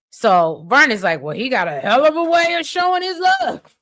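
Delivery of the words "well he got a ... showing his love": high-pitched mock outrage; imitating an incredulous comeback; acted indignant retort. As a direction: exclaim it in exaggerated disbelief. Acted quote, Vernon's retort.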